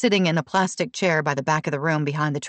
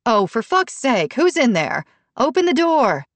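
angry shout; 8 semitones higher, 5 dB louder than usual. A narrator's reading. Brooke furious at the locked door, angry shout. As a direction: demand they open up.

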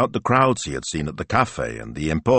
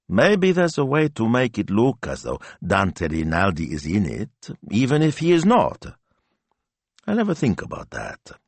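lightly voiced wife, pitch lifting at the end; scheming wife; 3 semitones higher than usual. Wife suggests faking the star's presence, scheming. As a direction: float the idea, ending high.

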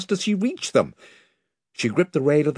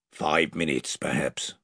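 much softer, low hush; whispered; 10 semitones lower, 7 dB quieter than usual. A narrator's reading. Drinian answers the king under his breath, soft and low. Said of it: "whispered Drinian".

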